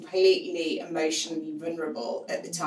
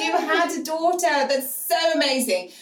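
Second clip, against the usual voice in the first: shrieked much higher and louder; screamed congratulations; 11 semitones higher, 6 dB louder than usual. Retold or imitated. Guest mishears and shrieks congratulations to the mother, high and loud. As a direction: retell a guest's delighted shriek. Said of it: "So they screamed".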